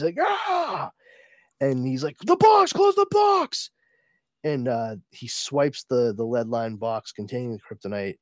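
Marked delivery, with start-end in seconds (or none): 0.2-0.9 high, contained scream of pain; hammed-up cry at moderate volume; mock scream. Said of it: "he screams". 2.2-3.7 high, loud mock-panicked order; panicked shout. Ruler acted in agony, ordering.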